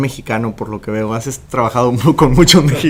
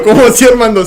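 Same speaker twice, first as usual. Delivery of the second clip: mock surprise; 10 semitones higher, 6 dB louder, faster than usual. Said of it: "Y yo".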